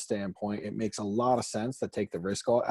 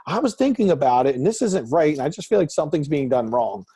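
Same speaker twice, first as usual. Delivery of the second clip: fretting seller; 4 semitones higher, 4 dB louder than usual. Retold or imitated. Seller voiced calling back.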